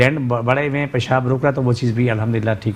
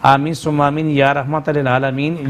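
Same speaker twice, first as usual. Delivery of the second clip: earnest dua recited steadily; fervent prayer. Acted. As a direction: pray aloud for everyone's healing. Leads a prayer for callers. (जोश भरी दुआ)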